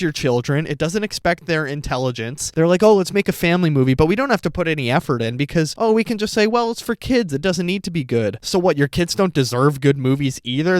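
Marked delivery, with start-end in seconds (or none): 2.8-8.4 quick, raised-pitch mocking quote; mock careless filmmakers. Critic imitates filmmakers excusing a lazy family movie, mockingly dismissive. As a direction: lightly voice dismissive movie makers.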